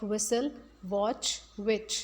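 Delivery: whistle, watch, which with no separate T sound; whistle, watch, which as silent-T examples. Shown as a demonstration. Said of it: "इन सब में T silent है".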